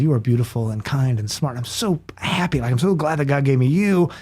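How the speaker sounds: tender, moved, slightly choked up; close to tears. Real, not acted. Father reciting his blessing to his daughters, close to tears. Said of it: "not gonna cry on your show".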